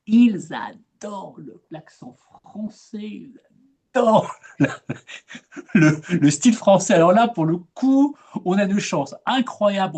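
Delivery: plus aigu, ravi, avec un petit rire; s'emballer joyeusement sur le charme français; enthousiaste. Real, not acted. (conseillère ravie qui rassure les expatriés, enthousiaste)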